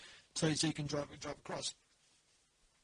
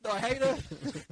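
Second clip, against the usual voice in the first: high, loud imitation of disgust; hammed-up loathing, pitched up and louder; mock angry outburst; 6 semitones higher, 6 dB louder, much slower than usual. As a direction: retell it as an exasperated outburst. Retold rant against SUVs.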